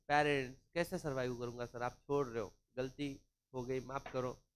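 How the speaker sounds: low, soft apologetic plea; imitating a worker meekly begging again; pleading employee. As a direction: drop the voice low and beg for forgiveness.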